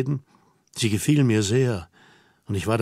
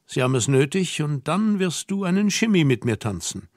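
put-on slightly raised, matter-of-fact girl's voice; lightly voiced bossy young woman; 3 semitones higher than usual. Girl tells hesitant man they will dance, lightly bossy and coaxing. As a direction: coax him along in a lightly feminine voice.

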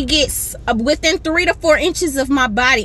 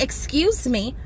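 "Excuse me" said gently and softer; soft polite excuse me; 6 dB quieter, slower than usual. Shown as a demonstration. Telling the rude lady how to ask, softly polite. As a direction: ask nicely and quietly, like it's all she needed. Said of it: "If you say".

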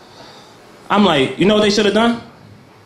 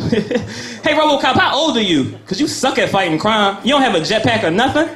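mocking heckler; 4 semitones higher than usual. Taunting RoboCop in mock voice.

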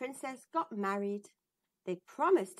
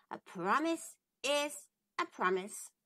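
frog's voice; 3 semitones higher than usual. Acted. The frog reminds the princess, calm and steady. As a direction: gently hold her to her word. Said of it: "said Frog".

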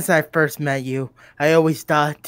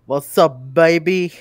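cheesy pickup line; 4 dB louder, slower than usual. Pretend. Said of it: "What the fuck did you just say?".

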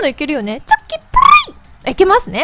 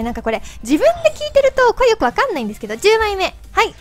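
chipmunk voice from helium; 3 dB louder than usual. Real, not acted. (ヘリウムガスの甲高い声)

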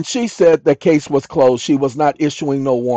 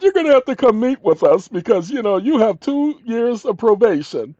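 voicing the officer; 5 semitones higher than usual. Probation officer voiced in story.

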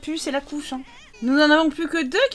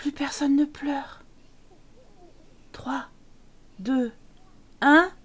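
softly whispered relief; 3 dB quieter, slower than usual. Real, not acted. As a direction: breathe it so nobody wakes. Hushed moment of silence.

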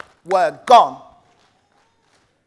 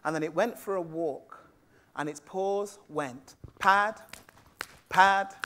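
hushed narration; 6 semitones lower, 10 dB quieter than usual. A narrator's reading. Storyteller whispering the cat's walk to the children. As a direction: let the words tiptoe like the cat's paws.

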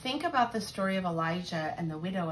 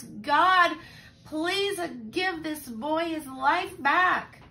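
desperate plea; 8 semitones higher, 8 dB louder, slower than usual. Acted. Elijah's third prayer for boy.

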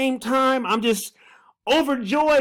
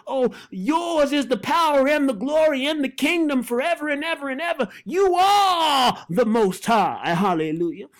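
rising, shouted praise; fervent prayer. Acted. Preacher prays aloud to the Holy Ghost, fervent. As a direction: lift it up to God in praise. Praying at full force.

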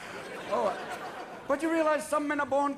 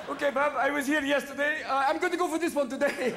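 putting on a hesitant contestant voice; game-show contestant; 3 semitones higher than usual. Retold or imitated. Contestant telling host Bob his pick, put-on voice. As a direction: speak as a put-on character making a pick.

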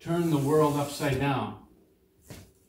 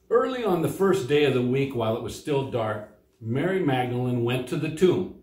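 scripture reading. Acted. Pastor reads the Easter story from John, storytelling read.

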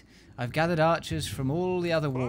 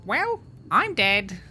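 rusty, slow, louder duck voice; 8 semitones higher, 7 dB louder, slower than usual. Acted. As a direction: warm up into a squawky duck voice. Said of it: "you can do it in the duck voice".

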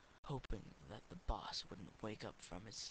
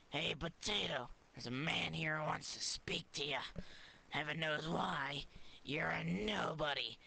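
sneering boss; 3 semitones higher, 4 dB louder than usual. Acted. Boss mocks potato.

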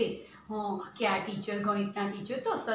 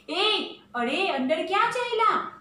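guard's shout; 8 semitones higher than usual. Acted. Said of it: "ચોકીદાર ફરી બૂમ પાડે છે". (ચોકીદારની ઊંચી બૂમ)

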